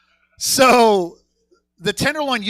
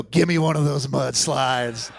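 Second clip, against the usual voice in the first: deliberate order; 4 semitones lower, slower than usual. Retold or imitated. Copies the earlier customer's order.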